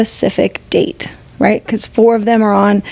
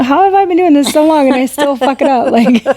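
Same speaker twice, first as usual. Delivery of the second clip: amused words through laughter; laughing; 4 semitones higher than usual. Real, not acted. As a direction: laugh while you say it. Laughing at herself.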